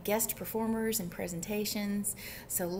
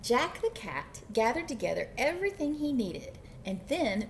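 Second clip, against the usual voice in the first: animated picture-book reading; story narration. A narrator's reading. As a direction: read it to little children with lively emphasis. Reads picture book aloud.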